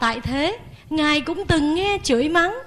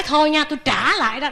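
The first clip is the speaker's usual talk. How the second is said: snippy retort; faster than usual. Retold or imitated. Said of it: "Chứ đừng có nói".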